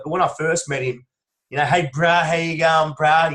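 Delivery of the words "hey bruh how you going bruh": a mild take-off of a typical football player saying hi; a hint of a chummy bloke greeting his mate; casual footballer greeting. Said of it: "that's how they all talk".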